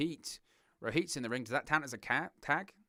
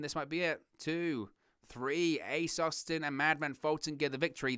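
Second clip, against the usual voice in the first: excited count; 4 semitones higher than usual. Real, not acted. Calling the pinfall count.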